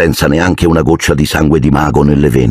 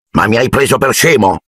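growl; 4 semitones higher than usual. Acted. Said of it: "ringhiò zio Vernon".

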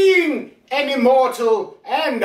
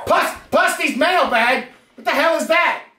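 indignant shouting; 6 semitones higher than usual. Real, not acted.

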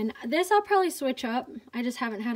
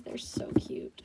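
whispering; 6 dB quieter, slower than usual. Real, not acted. Cooing over tiny baby shoes.

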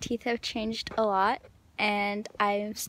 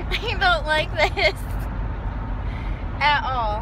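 speaking around orthodontic facebow wire; talking with headgear in mouth; 3 semitones higher, 5 dB louder than usual. Real, not acted. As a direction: lips parted around metal bow. Seen 3: Headgear wire bow sits between lips through labelled words; dark later.

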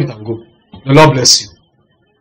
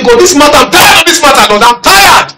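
higher, pleading cry to God; plaintive prayer; 9 semitones higher, 3 dB louder than usual. Retold or imitated. Pastor re-enacting his weary prayer to God. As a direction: beg God like a worn-out man.

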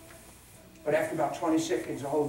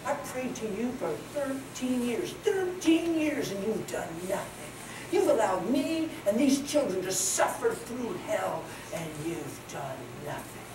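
bitter prayer; 2 semitones higher, 3 dB quieter, slower than usual. Retold or imitated. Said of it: "she said".

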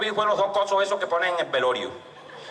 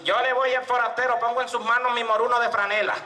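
put-on old woman; 5 semitones higher than usual. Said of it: "Se paró una vieja y hizo así".

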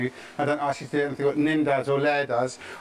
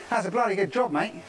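higher, hammed-up Australian, dropping to mate; broad Australian accent; 5 semitones higher than usual. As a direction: lay the Australian on thick, ending with mate. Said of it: "That's Australian".

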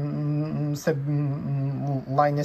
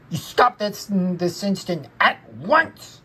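mildly cross scolding, slowing on this instant at once; 4 semitones higher, 4 dB louder than usual. Acted. Linus ordering P T Flea to stop, mildly cross. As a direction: scold him like a stern little boy. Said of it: "said Linus crossly".

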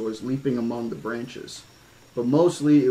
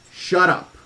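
stern command; 6 semitones higher, 7 dB louder than usual. Acted. Grant silencing the kids.

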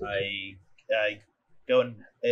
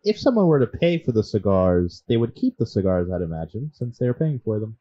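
sarcastic; 7 dB louder than usual. Acted. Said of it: "with moderately high sarcasm".

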